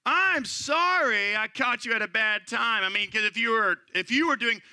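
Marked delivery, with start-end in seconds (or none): 0.1-2.8 fake apology. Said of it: "what you're really trying to say is".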